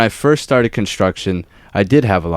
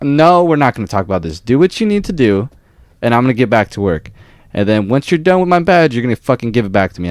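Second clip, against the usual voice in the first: heated refusal; 3 semitones higher than usual. Retold or imitated.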